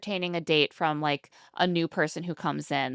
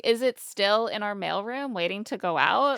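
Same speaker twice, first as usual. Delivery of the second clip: mock bratty insistence, pressing the order home; bratty demanding; 3 semitones higher than usual. Retelling his demands to get Susie back, mock bratty. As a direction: imitate a brat who must have it immediately. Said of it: "truly the most bratty behavior".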